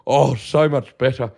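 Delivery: lightly voiced mum, savouring it; a hint of a satisfied mother; mum's smug delight. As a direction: mum gushing over the chocolate. Mum voiced tasting chocolate.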